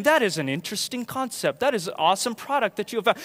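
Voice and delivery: over-correct and polite; prim formal reply, lightly done; mock formal. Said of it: "Instead of saying".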